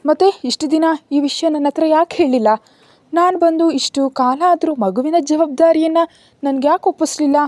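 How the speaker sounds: a lightly voiced young woman asking why she was never told; young woman questioning. A narrator's reading. Anvika asks Arjun why he hid the child, puzzled and pressing.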